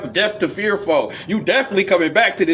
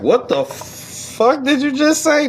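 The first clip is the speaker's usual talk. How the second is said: mock outrage; 9 semitones higher, slower than usual. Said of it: "they're like".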